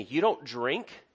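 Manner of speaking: drawn-out, questioning disbelief; mock surprise, voice rising at the end; surprised partygoer. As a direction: stretch it into an incredulous question. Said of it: "they'll be surprised that you don't".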